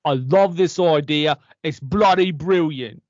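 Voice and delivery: a put-on Cockney accent, a bit loud; hammy actor slipping into Cockney. Actor greets the interviewer in a loud Cockney accent. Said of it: "are you doing that Cockney accent".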